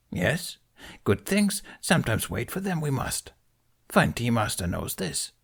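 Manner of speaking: put-on a wise old creature, gently scolding; Yoda voice. Yoda lecturing Ben on his tea, amused. Yoda's voice in story.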